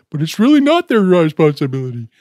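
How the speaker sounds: a hint of a smug official; lightly mock the officials. Mocking how officials sound, lightly put-on. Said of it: "that's how they sound when they talk".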